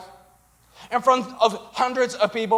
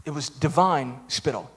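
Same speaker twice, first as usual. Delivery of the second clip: mock pompous theologian; 9 semitones lower, 6 dB quieter than usual. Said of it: "They said".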